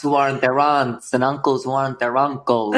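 broad New England vowels; hammed-up New England relative; New England accent. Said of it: "our fathers".

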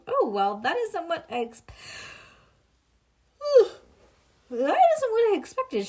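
loud, high flustered gasp into words; dismayed surprise. Acted. Teacher sees cooked turkey photo, flustered and loud. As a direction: recoil and stammer in dismay.

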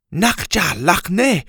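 slow, loud, threatening growl. A narrator's reading. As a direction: growl it at them over the spear. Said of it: "the girl growled".

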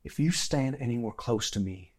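low menacing threat. Acted. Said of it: "he goes".

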